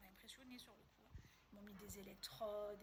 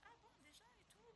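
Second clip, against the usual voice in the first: mock surprise; 10 semitones higher, 11 dB quieter than usual. Surprised it is over.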